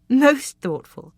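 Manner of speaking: slow, high teasing drawl. Acted. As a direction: tease him slowly. Teasing agreement.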